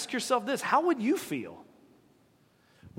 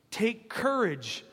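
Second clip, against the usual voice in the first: "Take courage," drawn out slowly, both words held; slow emphasis; 2 semitones higher, slower than usual. Shown as a demonstration. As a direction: lean on "Take courage," like a firm order. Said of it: "understand what he's saying".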